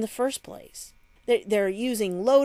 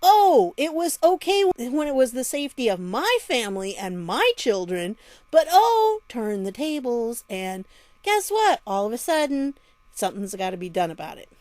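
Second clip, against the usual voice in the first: mocking sarcastic paraphrase; 2 semitones higher than usual. Vlogger mocking the mayor's statement to her viewers, sarcastic. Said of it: "What would you think when you saw that statement?".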